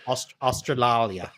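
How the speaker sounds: "Australalia" garbled, an extra syllable, slow; tongue-tied stumble. Real, not acted. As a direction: trip over "Australalia" on purpose.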